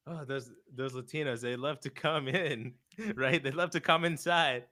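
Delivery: slow, lightly voiced comic drawl breaking into a laugh; a hint of a roast comic milking the line; mild mock roast delivery, laughing through it; imitating Tony Hinchcliffe. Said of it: "when Tony Hinchcliffe was like".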